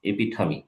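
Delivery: "এপিঠামি" said slowly, syllable by syllable; slow pronunciation model. Shown as a demonstration. Teacher models "এপিঠামি" slowly for students. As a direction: spell out "এপিঠামি" clearly for the class. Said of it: "এটার উচ্চারণ এপিঠামি".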